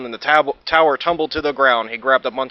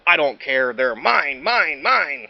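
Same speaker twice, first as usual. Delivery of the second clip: yelling; slower than usual. Acted. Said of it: "the Minosaur yelled".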